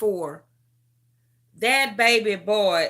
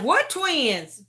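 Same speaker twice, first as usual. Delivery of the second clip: high, puzzled double take; higher startled question; baffled what twins; 7 semitones higher than usual. Retold or imitated. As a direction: caught off guard by the news. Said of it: "And I was like".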